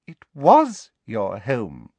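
slow, pointed, stress on was; cold satisfaction. Acted. Umbridge relishing the teacher's loss, slow and cold. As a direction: savour the correction slowly. Umbridge coldly correcting her.

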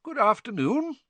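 light, high genial greeting; mildly cheerful courtesy; pleasant. A narrator's reading. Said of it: "he said pleasantly".

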